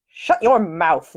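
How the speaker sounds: slow, commanding lord; deep lordly voice. Acted. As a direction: order it slowly like a lord. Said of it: "in his deepest, most lordly voice".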